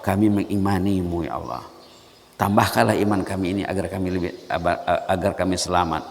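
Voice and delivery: soft, earnest plea to God; humble prayer. Shown as a demonstration. Preacher modelling a soft prayerful response. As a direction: pray it softly and sincerely. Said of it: "patutnya direspon dan dijawab".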